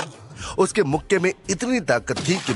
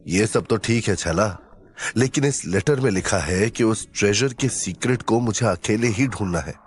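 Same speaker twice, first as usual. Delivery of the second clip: low, earnest hero's voice; serious hero; 3 semitones lower than usual. Acted. Hero telling sidekick about the secret letter, serious. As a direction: explain gravely in a lowered voice.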